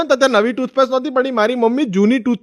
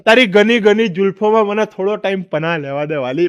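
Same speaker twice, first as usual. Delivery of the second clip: mock romantic poetry. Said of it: "શાયરી શીખીને આવ્યો".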